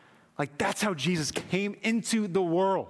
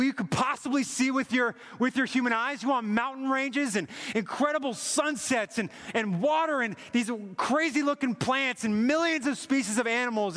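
God's passionate offer; 4 semitones higher than usual. Retold or imitated. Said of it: "He's like".

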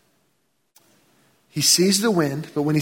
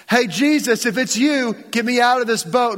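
eager Peter; 5 semitones higher than usual. Acted. Peter voiced again.

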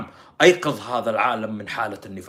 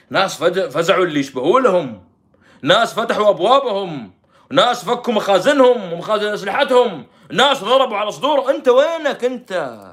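imitated lamenting appeal, louder and higher; mock lament; 6 semitones higher, 8 dB louder than usual. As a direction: wail out a rallying lament. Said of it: "وقف لي اللطم بالله".

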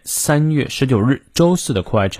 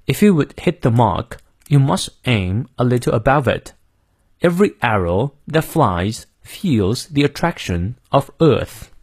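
British accent. Shown as a demonstration. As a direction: model reading in British English, r silent in "mark" and "Earth". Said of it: "我们来念一下英式发音".

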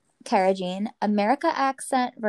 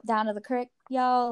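West Virginia drawl. Shown as a demonstration. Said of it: "like, drawl on some words".

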